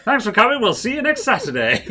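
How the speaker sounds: high, loud outro while cracking up; laughing mock farewell. Host joining the fake show ending, high and laughing. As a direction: call out a fake goodbye through giggles. Joins the joke sign-off, laughing.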